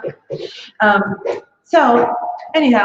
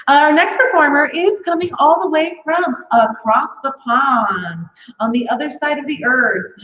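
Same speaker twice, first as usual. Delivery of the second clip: emcee introduction; 2 semitones higher than usual. Acted. Host introducing the next comic to the audience, announcer voice. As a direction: hype the next act to the crowd.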